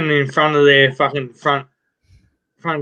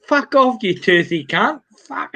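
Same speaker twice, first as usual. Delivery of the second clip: mock angry nun; 6 semitones higher than usual. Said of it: "winds down the window and goes".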